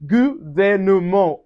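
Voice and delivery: Gouvernement said slowly, T silent; French gouvernement. Shown as a demonstration. Teacher modelling Gouvernement slowly. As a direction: say Gouvernement with no final T. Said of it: "we don't pronounce the T".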